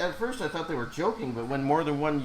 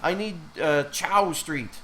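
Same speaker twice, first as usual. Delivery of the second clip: lightly voiced old lady asking for her stop; imitating insistent passenger; 4 semitones higher than usual. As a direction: insist haltingly, as the confused passenger. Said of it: "She kept saying over and over".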